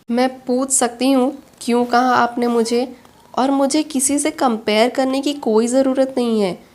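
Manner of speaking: indignant challenge. Acted. Meera confronts her boss in quarrel. (नाराज़गी भरा, ऊँचे सुर में विरोध)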